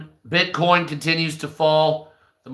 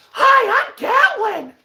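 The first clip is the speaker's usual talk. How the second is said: much higher put-on character voice; Gatlin voice; slower than usual. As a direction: pitch way up as a cocky Gatlin. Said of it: "that's Gatlin".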